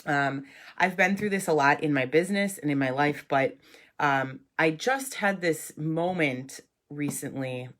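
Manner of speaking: stuffy nose, nasally from a cold. Real, not acted. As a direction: talk through a real head cold. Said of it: "sorry for the nasally voice".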